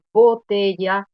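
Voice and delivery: "botella" with TE carrying the weight; teacher's demo of "botella", stressed second-last syllable; stress on middle syllable. Shown as a demonstration. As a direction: lean on the TE of "botella". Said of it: "aquí la sílaba tónica está colocada".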